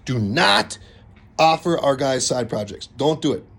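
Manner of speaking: firm, falling "Don't"; a stern but friendly warning to homeowners. Real, not acted. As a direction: lay down the law on "Don't do it". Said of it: "I'm being stern here".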